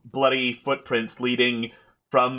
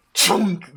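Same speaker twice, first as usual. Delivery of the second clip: high, punched switch noise; spotlight clunk; 7 semitones higher than usual. Acted. Game master imitates a stage light switching on, punched clunk.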